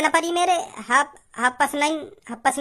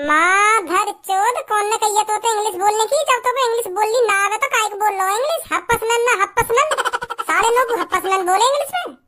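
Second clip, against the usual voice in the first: exasperated, raised-pitch rant; indignant outburst; 5 semitones higher than usual. Acted. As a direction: tell him off for showing off his English. Angry mockery of friend's English.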